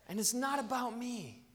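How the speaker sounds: softened right down, measured; humble admission. Real, not acted. Preacher including himself after correcting church, humbly quiet. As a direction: drop the volume and own it quietly.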